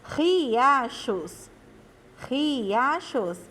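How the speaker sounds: "Riachos" with a strong, breath-like initial R. Shown as a demonstration. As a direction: stress the opening R of "Riachos". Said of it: "o som dele fica forte".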